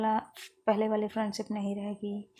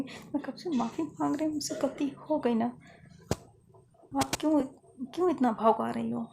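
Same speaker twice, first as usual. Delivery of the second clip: retold pleading; 4 semitones higher than usual. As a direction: press her hard, begging and exasperated. Fiza begs Lovely for forgiveness.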